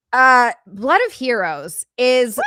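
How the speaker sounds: loud, drawn-out hype; excited shout. Real, not acted. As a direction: announce the donor loudly.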